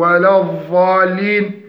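الضالين with the dad turned into "dh", as in "ðalin"; dad as dhal. Shown as a demonstration. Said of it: "أو". (قلب الضاد ذالا)

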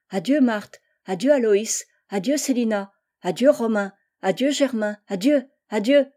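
lightly voiced children calling goodbye; a string of bright little farewells; little children's voices. A narrator's reading. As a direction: call each goodbye like a child. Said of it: "répondaient des petites voix de tous côtés".

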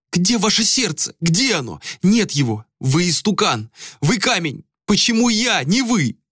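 high, sobbing accusations; beating his chest with words; hysterical reproach. A narrator's reading. Malika raging at Ader, high and hysterical.

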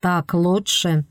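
slow aggressive words through teeth. Acted. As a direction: bite it out slowly, through teeth. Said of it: "Норман агрессивно процедил".

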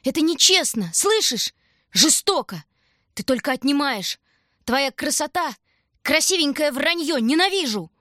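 high, loud desperate cry at the rooftops; helpless shout. Acted. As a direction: scream it out, helpless and furious. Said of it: "И беспомощно крикнула крышам".

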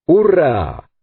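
high, drawn-out hurrah falling at the end; exclaimed cheer. A narrator's reading. Sailor cheering as the last of the apes falls, exclaiming. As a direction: let out a triumphant hurrah. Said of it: "exclamó Pencroff".

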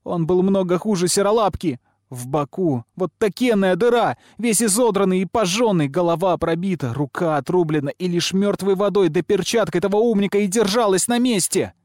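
put-on high, loud girlish tirade; shrill, outraged child accusing everyone; furious tirade. A narrator's reading. Girl's screamed tirade of accusations.

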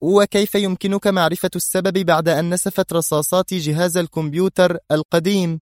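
keen question, pitched well up; interested. A narrator's reading. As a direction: ask with lively interest. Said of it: "سألته منى في اهتمام".

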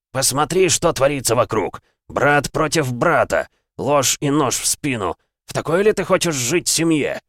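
высокий громкий обличающий крик; кричать, обвиняя и увещевая; гневная тирада. Acted. Бог отчитывает героя. (гневная тирада)

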